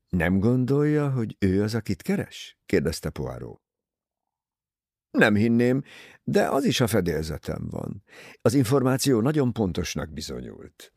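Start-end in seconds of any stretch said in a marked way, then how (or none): none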